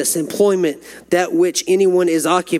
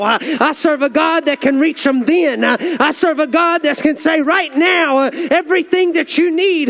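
rising preacher's fervor, higher and higher in pitch; preaching at full force; 6 semitones higher than usual. Real, not acted. Preacher telling the congregation about praying with inmates, full fervor. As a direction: build the sermon to a ringing, higher-pitched climax.

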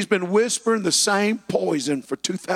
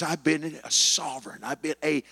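enemy boasting; 4 semitones lower than usual. Retold or imitated. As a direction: let the enemy gloat low. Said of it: "the enemy says".

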